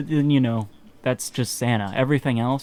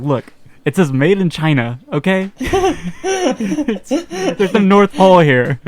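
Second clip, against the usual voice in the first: laughing mock proof; 7 semitones higher, 8 dB louder, slower than usual. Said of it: "And I was like".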